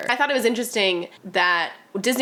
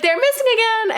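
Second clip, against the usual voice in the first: mock careless mom; 5 dB louder than usual. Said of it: "she's like".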